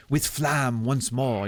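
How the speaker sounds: slow, with "flamme" said the French way, as "flahm"; French pronunciation. Shown as a demonstration. Streamer trying out French words, "flamme" as "flahm". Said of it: "bring more of the French actual pronunciation".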